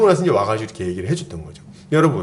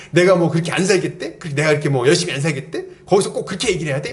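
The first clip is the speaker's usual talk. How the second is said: retold indignant complaint; 2 semitones higher, faster than usual. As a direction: imitate someone venting with quick rhetorical questions. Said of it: "이렇게 하면서 막 화가 난 거예요". (화난 자매 흉내로 빠르게 따지듯)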